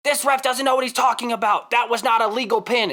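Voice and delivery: whiny ref complaint, imitated; a mild mock rant about the ref; complaining fan. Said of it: "he was complaining about the reffing".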